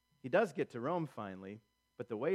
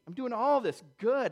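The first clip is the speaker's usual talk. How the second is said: mock self-pity; 8 semitones higher, 7 dB louder than usual. Voicing Paul's imagined self-pity.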